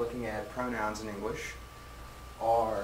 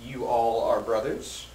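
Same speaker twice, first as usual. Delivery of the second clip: slow model sentence. Shown as a demonstration. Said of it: "So you can say".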